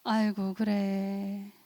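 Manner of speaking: soft, drawn-out sympathy; calm, unfussy comforting. Shown as a demonstration. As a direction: let them cry, quietly accepting. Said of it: "호들갑 떨지 않아요".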